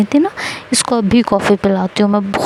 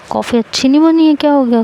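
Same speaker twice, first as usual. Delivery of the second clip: higher, quick worried question; a mother fussing over a guest; aunt asks the coughing girl what went wrong; concerned; 5 semitones higher, faster than usual. Retold or imitated.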